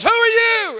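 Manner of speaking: high-pitched mock outrage; angry challenge. Man demands who the bystander is, mock angry.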